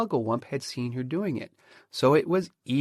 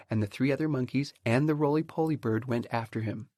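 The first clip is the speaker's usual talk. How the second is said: ordinary delivery, nothing marked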